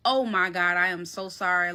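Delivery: low-pitched, stunned apology; retold shock. Apologizing to the bitten housemate, low and stunned. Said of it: "I was in complete shock".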